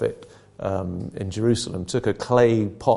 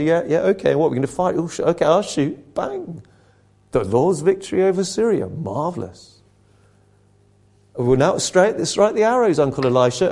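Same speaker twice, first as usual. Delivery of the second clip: mock-casual king brushing off the prophet, a bit higher; humoring, offhand; 4 semitones higher than usual. King humoring Elisha with the arrows, offhand and casual. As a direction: play along lazily, humoring the old man. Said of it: "he's basically humoring the prophet".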